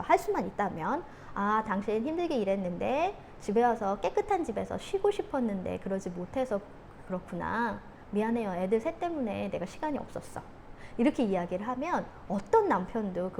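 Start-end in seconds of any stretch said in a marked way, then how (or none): 1.3-10.4 soft, gentle apology to a partner; positive, understanding. Acted. Wife to husband home from work, soft and understanding. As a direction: soothe with a quieter, understanding voice. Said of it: "긍정적으로 이야기를 해주는 거죠".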